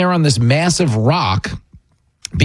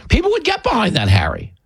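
mock pep talk; 7 semitones higher than usual. Mock pitch to Harry.

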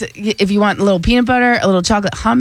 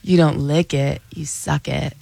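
low, softening, slower sultry delivery; slow and sexy; 7 semitones lower, 5 dB quieter than usual. Shown as a demonstration. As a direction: say it slowly, low and seductive, fading softer. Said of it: "Say it again, but a little slower".

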